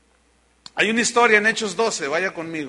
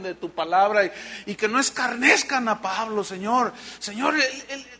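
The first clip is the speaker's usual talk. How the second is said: praying disciples; 4 semitones higher than usual. Retold or imitated. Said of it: "empezaron a orar por él".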